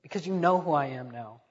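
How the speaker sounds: voiced demand with measured, weighty emphasis; firm demand. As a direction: demand it as a risen king, understated. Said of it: "he demanded".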